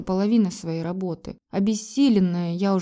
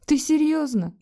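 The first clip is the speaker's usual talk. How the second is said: smirking; 8 semitones higher than usual. A narrator's reading. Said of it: "усмехнулась я".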